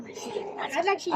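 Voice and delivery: slow whispered repeat. Real, not acted. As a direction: breathe it out slowly, whispering. Kid claiming the channel.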